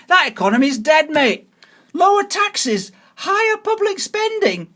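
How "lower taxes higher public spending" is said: high mock reading of the slogan; mocking quote. Voter mocking a party leaflet, high sarcastic read-out. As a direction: parrot the leaflet's promise back in a higher voice.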